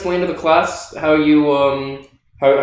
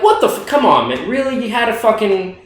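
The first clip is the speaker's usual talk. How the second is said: mock frustration; 5 semitones higher than usual. Fake-ending movie frustration.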